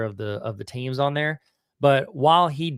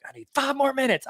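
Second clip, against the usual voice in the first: lightly voiced high-pitched whiny plea; a hint of a begging movie character; playful high pleading quote; mock Seth Green pleading; 11 semitones higher than usual. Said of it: "Seth Green in that movie where he was like".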